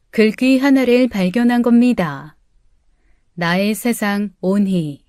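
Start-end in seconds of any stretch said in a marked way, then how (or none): 3.4-5.0 tender reading. Acted. Reading father's note.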